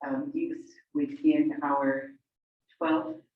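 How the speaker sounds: stretched out, pausing between words; real slow, halting stalling with long gaps; talking slowly. Real, not acted. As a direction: stall for time, one word at a time. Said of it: "I'm talking slowly".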